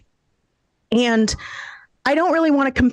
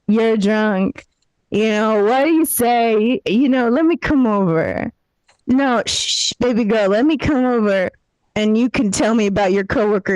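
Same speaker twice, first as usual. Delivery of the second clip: put-on drunk caller. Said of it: "call your friend and be like".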